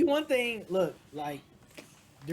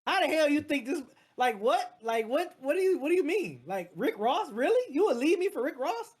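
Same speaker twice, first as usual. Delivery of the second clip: questions climbing higher toward the end; retold thrown-off disbelief; 3 semitones higher than usual. Man retelling his challenge to his date, incredulous. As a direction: imitate being caught off guard, piling up incredulous questions. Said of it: "that threw me off guard".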